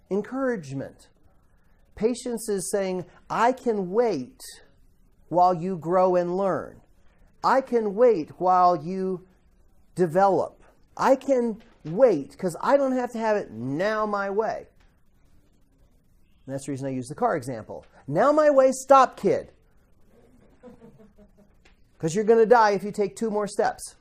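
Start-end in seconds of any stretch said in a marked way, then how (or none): 3.3-14.7 patient calm voice. Acted. Preacher voicing patient person. 18.1-23.9 put-on raised, sharp warning to a child; urgent yell at kid. Parent yelling at a child near the road, urgent shout.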